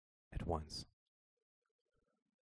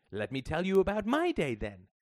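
bright, forced energy, a touch overdone; false cheer; 9 semitones higher, 6 dB louder than usual. A narrator's reading. Mother to her daughter, changing the subject with forced cheer. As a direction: cover the awkwardness with fake enthusiasm. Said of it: "her voice shiny with false energy".

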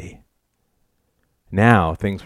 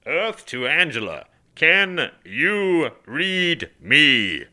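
slow, high, drawn-out radio call; cupped-hands hailing; 7 semitones higher, much slower than usual. A narrator's reading. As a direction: stretch each word like calling into space. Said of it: "cupped his hands around his mouth".

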